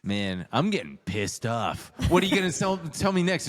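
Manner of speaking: ordinary delivery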